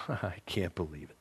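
low, hissing whisper of a tempter; snake voice. Acted. Satan whispering to a believer, in a snake voice. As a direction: whisper it like a serpent in the ear. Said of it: "That's my little, you know, snake voice".

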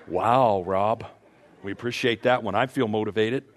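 deadpan as if the crowd is unimpressed; mock sarcasm. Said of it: "I know what you're thinking".

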